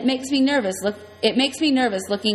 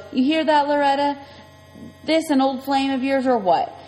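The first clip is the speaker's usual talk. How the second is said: higher, taunting biker voice; mocking biker; 4 semitones higher than usual. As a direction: sneer it at her.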